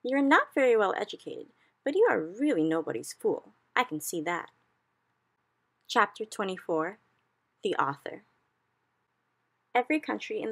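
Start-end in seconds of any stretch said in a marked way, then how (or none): 0.0-4.5 the Queen. A narrator's reading. Queen praises the BFG.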